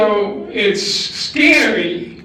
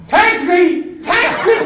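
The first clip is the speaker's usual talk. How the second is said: loud calls climbing higher; hailing a taxi; 9 semitones higher, 3 dB louder, slower than usual. Acted. Husband gleefully calling a cab after his wife's threat, loud and rising. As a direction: shout for a cab, second call higher.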